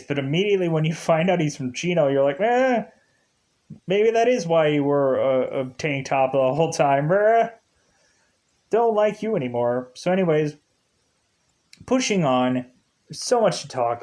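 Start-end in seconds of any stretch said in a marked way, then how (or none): 2.4-9.9 snooty dismissal. Retold or imitated. Partygoer dropping Ryan, snooty mock brush-off. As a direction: turn up your nose at him.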